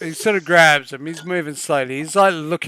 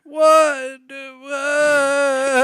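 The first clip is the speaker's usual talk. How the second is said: high, long drawn-out disbelief; bewildered outcry; 10 semitones higher, 5 dB louder than usual. Acted. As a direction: cry it out high, stretching the word. Confused character pushed to the stage.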